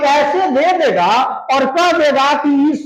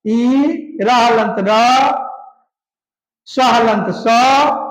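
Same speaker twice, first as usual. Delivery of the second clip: ई र हलंत र, स हलंत स spelled very slowly, syllable by syllable; slow spelling out; 3 semitones lower, much slower than usual. Shown as a demonstration. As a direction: dictate each letter of ईर्ष्या slowly. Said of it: "शुद्ध अगर लिखोगे तो ऐसे हो जाएगा". (धीरे-धीरे अक्षर बोलना)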